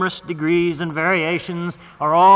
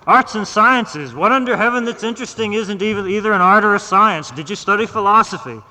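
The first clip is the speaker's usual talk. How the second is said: incredulous scoffing; 5 semitones higher, 5 dB louder than usual. Acted. Doctor scoffing at the patient's vague degree, incredulous. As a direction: repeat it back in scornful disbelief. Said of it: "doctor scoffs at the answer".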